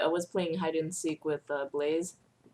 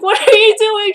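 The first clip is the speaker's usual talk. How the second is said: much higher, louder, baffled; incredulous question; 15 dB louder than usual. Retold or imitated. Staring at the panicking driver, high baffled question. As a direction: ask it in high disbelief. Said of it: "I'm just staring at her like".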